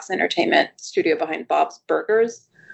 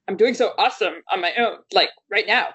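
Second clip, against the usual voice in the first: lightly voiced cartoon princess, fast; a hint of a bratty cartoon princess; Lumpy Space Princess voice; 3 semitones higher than usual. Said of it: "wait, let me try".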